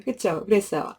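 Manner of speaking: normal talking voice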